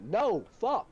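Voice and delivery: high, exasperated outburst; retold crash-out yell. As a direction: re-enact snapping at someone who keeps interrupting. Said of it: "I just crash out and I fucking yell".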